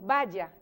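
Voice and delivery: "vaya" with a firm consonant y, like ba-ya; "vaya" with a hard y between the vowels; Venezuelan pronunciation. Shown as a demonstration. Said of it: "nosotros aquí en Venezuela decimos".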